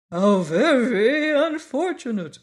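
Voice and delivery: high, loud cry of dismay. A narrator's reading. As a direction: exclaim in sudden sympathy. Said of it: "cried the Wogglebug".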